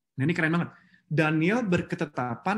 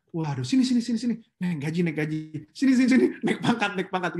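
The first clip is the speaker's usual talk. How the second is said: delighted boss. Retold or imitated. Preacher voices a thrilled boss offering a raise. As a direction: wave them over with glee.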